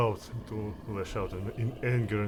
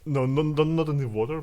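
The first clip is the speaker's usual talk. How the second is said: louder, higher quick retraction; hasty correction; 5 semitones higher, 8 dB louder than usual. Real, not acted. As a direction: cut in loudly to take it back. Hastily corrects own action.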